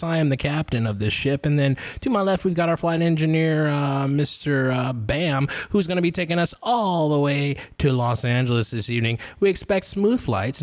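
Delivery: captain's intercom announcement; pilot over the radio. Shown as a demonstration. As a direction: welcome passengers like an airline captain. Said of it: "Take three".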